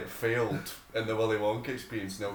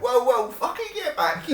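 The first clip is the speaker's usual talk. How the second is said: much higher mock yell, laughing; angry shout; 13 semitones higher, 4 dB louder than usual. Mimicking the woman yelling at the organiser, laughing. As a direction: shout after him, half laughing. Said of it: "the woman's like".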